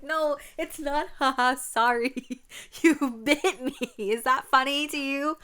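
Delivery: high, loud outraged scolding; indignant outrage. Retold or imitated. Big sister scolding the little one for laughing, high and loud. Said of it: "And I was like".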